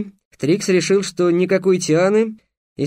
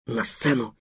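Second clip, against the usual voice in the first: whispering; 4 semitones lower, 7 dB quieter than usual. Acted. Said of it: "прошептал Бамбура".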